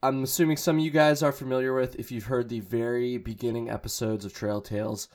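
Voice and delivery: scratchy hungover voice; groggy and a bit hoarse. Real, not acted. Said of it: "I'm a little bit hungover, so sorry for my voice scratchiness".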